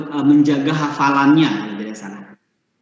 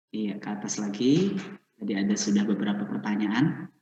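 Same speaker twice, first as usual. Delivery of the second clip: much softer, lower aside; quiet aside; 4 semitones lower, 13 dB quieter, faster than usual. Real, not acted. Host asks helper to scroll up for the questions, quiet aside. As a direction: talk low to a helper while searching.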